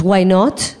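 lightly voiced daughter, simple rising question; mild retold curiosity; daughter's casual question. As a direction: ask it innocently, rising at the end. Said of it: "she goes".

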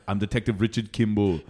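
lightly voiced Austrian action-star accent; low Austrian-accented soundboard clip; Arnold Schwarzenegger. Soundboard prankster introducing himself on a call, Austrian accent. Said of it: "an Arnold Schwarzenegger soundboard".

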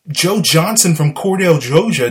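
Southern accent slipping out on GEORGIA. Real, not acted. Football commentator naming a hometown, Southern accent. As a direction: let a Southern accent creep into the place name. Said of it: "My southern accent started coming out".

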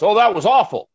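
high, loud, whiny fake disgust; mock disgusted fan. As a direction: imitate fans pretending to be appalled. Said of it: "everyone goes".

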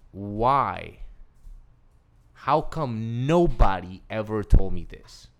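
a retold mad rant; angry outburst. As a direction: vent the unfairness of it. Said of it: "I'm so mad".

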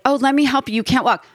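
high-pitched imitated helper; solicitous helper. Helper offering an arm to mom in heels, solicitous. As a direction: lightly mimic someone fussing to help.

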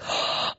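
shocked gasp. Retold or imitated. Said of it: "And I'm thinking".

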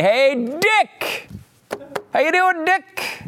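put-on high, bright-eyed hello to an old friend; cheery greeting. Time traveler greeting Dick Cheney, high and chummy. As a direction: sing out his name like a pal. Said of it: "you walk up to Dick Cheney and you say".

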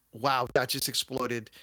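hushed, slow whisper. Real, not acted. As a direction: whisper it like a secret. Confiding aside about success.

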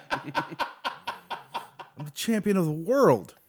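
slurred Paulie voice. Retold or imitated. Paulie quote.

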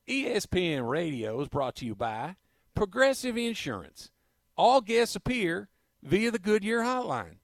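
a light imitation of a coach reading the ad; mock Brian Kelly ad read; Brian Kelly impression. Host redoing the sponsor copy as the coach, lightly voiced. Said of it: "do it in my Brian Kelly".

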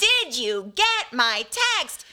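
slow announcer title read; game show announcer. Shown as a demonstration. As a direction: spell it out like a show name. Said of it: "It sounds like Will".

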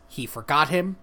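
storybook narrator reading a line. Acted. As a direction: deliver it like a solemn narrator. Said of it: "in narrator voice".

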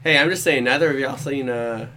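put-on Trevor Murdoch accent. Host teases co-hosts about the ending, Trevor Murdoch accent. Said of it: "What accent was that? ... That's my Trevor Murdoch accent".

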